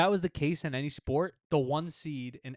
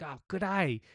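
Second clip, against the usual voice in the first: lightly put-on Australian greeting, pitched up; Australian accent; 5 semitones higher than usual. Someone in a serious situation, Australian accent. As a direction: do a mock Australian hello. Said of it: "somebody in an Australian accent was like".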